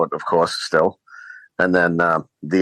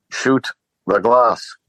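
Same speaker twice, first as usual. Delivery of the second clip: slow, higher imitation of a villain's order; Hans; 4 semitones higher, much slower than usual. Villain repeats order to confused henchman, slow and deliberate imitation. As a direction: quote it word by word, drawn out for someone who didn't understand. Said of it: "and then Hans goes".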